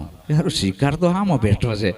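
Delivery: chuckling as he speaks, then a laugh; laughing lion. Retold or imitated. Lion turns on the guru with a sly laugh.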